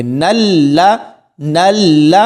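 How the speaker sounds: نل with a hard, held doubled l; firm joining. Shown as a demonstration. Teacher joining noon to laam, firm doubled l. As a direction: press firmly into the l of نل and hold it. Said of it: "سختی سے ملائیں گے".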